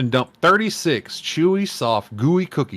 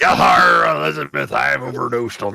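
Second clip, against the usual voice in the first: mock dying wrestler; 3 semitones lower than usual. Mock dying Macho Man.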